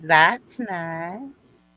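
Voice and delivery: polite Southern belle reply; drawn-out Southern politeness; Southern accent. Acted. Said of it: "I like your Southern accent".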